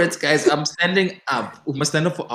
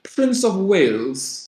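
slow, higher mock Welsh accent; 6 semitones higher, much slower than usual. Naming her tea, she tries a playful Welsh accent. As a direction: stretch it out in a put-on Welsh accent. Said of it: "That was my Welsh".

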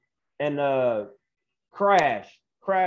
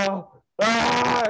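mock frightened wail, pitched up; retold scared; 5 semitones higher than usual. Wrestler hiding under his shirt before the verdict, playfully scared wail. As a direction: act out a nervous little cry. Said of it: "and I'm just scared".

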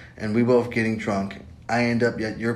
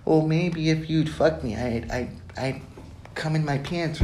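high, slowed, pleading mockery; hammed-up desperate whine; mock desperate guy; 5 semitones higher than usual. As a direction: lampoon a needy guy's hidden meaning. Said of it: "that maybe is like".

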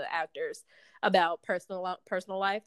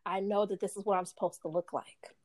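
softer, restrained acknowledgement; forced calm; 5 dB quieter than usual. Retold or imitated. Actress conceding to the makeup artist, forced calm. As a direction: keep it calm and held back. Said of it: "speaking to her as calm as possible".

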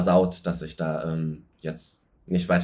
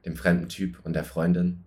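Raucherstimme; 3 semitones lower, 4 dB quieter than usual. Acted. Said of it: "Ist das grad deine sexy Stimme?".

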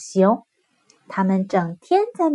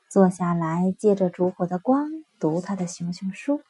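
ordinary delivery, nothing marked

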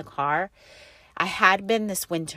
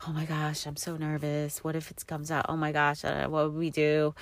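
hushed fake jitters; mock nervous hush; 6 dB quieter than usual. Faking nerves to the husband, hushed. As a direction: pretend to fret, hushed. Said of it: "playing it off like I was really nervous".

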